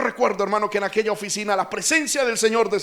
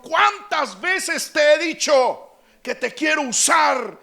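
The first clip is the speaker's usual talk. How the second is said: stern divine rebuke; 4 semitones higher, slower than usual. Retold or imitated. God rebuking, retold.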